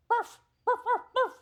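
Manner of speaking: shrill, loud, high barking; creature bark. Acted. Chipmunk creature barking at the girl, loud high yaps. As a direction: yap it out like a strange beast. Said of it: "it looks at her and it goes".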